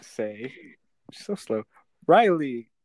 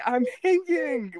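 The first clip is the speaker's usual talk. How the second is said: higher, slow mock quote of a misspelled text; higher, slower echo of the friend's message; mock reading of text; 12 semitones higher, 4 dB louder, slower than usual. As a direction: read the typo out with amused disbelief. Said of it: "she's like".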